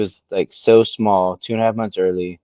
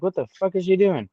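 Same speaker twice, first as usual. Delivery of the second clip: much higher, incredulous quote; retold disbelief; 10 semitones higher than usual. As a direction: replay your astonishment, pitch jumping up. Repeats own astonished reaction.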